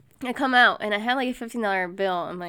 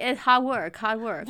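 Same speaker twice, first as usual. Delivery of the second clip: lightly imitated broken English, pitched up at first; mimicked masseuse; much slower than usual. Customer mimicking masseuse justifying the tip, insistent put-on voice. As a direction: insist on it in her voice.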